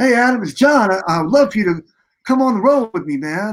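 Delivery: happy, upbeat, cheery voice. Retelling a phone call inviting him on the road, imitating John's happy voice. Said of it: "He's got this really like happy voice".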